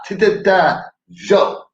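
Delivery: high, loud mock soul-singer mumble; mumbled soul-singer scat; impression of a famous soul singer. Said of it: that he sounds like a famous soul singer.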